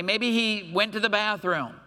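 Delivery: chuckling through the joke; laughing. Real, not acted. Preacher joking to the church, laughing. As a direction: let a laugh break in. Joking aside while retelling taunt.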